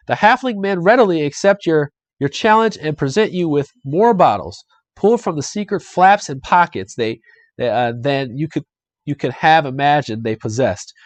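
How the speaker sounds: lively adventure-book read-aloud; game master reading out the scene; story narration. A narrator's reading. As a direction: narrate the tale for listeners, with animation.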